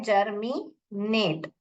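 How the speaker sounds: जर्मी joined, short gap, then नेट, slowly; alternative reading. Shown as a demonstration. Teacher offers another way to read, two-part जर्मी नेट. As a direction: read जर्मी as one piece and नेट apart. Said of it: "इसको ऐसे भी पढ़ सकते हैं".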